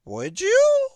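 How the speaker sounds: high, loud flustered sidekick; nervous high voice. Acted.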